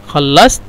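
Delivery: "خلصت" with the last ت cut off quickly; quick-stopped final t. Shown as a demonstration. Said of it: "آخر التاء شوية... يقف بسرعة".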